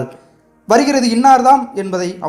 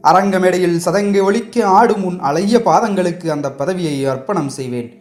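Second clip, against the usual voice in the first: tender; 4 semitones higher than usual. Acted. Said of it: "அன்பு ததும்பிய குரலில்".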